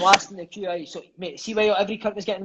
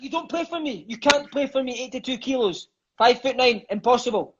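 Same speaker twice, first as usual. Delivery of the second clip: scolding coach; 6 semitones higher than usual. Retold or imitated. Coach quoted refusing to pick him.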